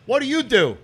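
high, blunt question; brash Brooklyn guy. Retold or imitated. Rich Brooklyn guy quizzing hipster, high blunt question. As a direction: toss the question at a stranger. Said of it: "he's like".

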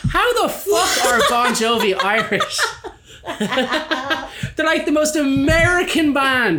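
high, loud laughing outrage; shrieking with laughter, slow; laughing disbelief. Retold or imitated. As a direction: howl it out in amused disbelief.

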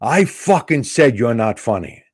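slow, emphatic retold heckle; loud heckler. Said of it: "Then he gets loud".

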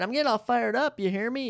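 fan's voice rising with excitement; getting fired up. Real, not acted. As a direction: rev yourself up like a fan before kickoff. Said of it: "You hear the tone of voice? It's changing".

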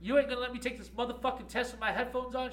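high, loud outraged comeback; imitating the student's furious retort; angry retort. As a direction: snap back at the teacher. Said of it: "She goes".

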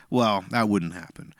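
smug, drawn-out understatement; lightly smarmy, unhurried brush-off. Retold or imitated. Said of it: "he says it in this smarmy".

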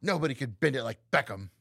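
lightly imitated actress, mouth too open; a loose actress impression with an open mouth; Keira Knightley. Cohost quoting a film title, loose mock impression. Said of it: "You're opening your mouth too fucking much".

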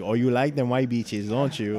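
loud mock Hispanic accent. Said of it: "like, a Hispanic accent".

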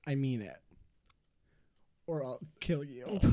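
creepy ghost voice. Acted. Ghost threatens boys.

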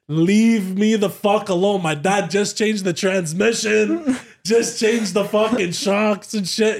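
high, slow, insistent protest; exasperated refusal. Retold or imitated. Crash victim refusing paramedics' test, exasperated.

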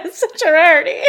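fast, laughing through the words; laughing sarcasm. Real, not acted. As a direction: chuckle it out quickly. Laughing repeat of joke.

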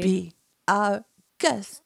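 slow, stretched mock French rendition of a song; a hint of a French singing candlestick; French candelabra accent. Shown as a demonstration. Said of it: "the guy I was trying to be like".

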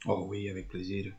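a hint of a Mexican accent, jokey; lightly put-on Mexican accent; mock Mexican accent. Cohost greeting the host in mock Mexican accent. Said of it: "Pourquoi on fait l'accent mexicain comme ça".

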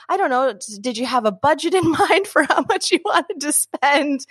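stumbling, laughing, mock-unsure seller; mock nervous stammer. Vendor timidly asking a customer's budget, mock nervous stammer. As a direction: fumble the question like you're scared to ask. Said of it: "get all nervous about stating the price".

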